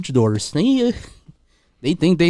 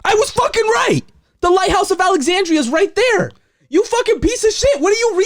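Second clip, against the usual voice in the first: much higher, louder gloating shout; triumphant yell; 3 dB louder than usual. Real, not acted. Proven right, he shouts at his co-host in triumph. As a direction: crow it at the top of your voice.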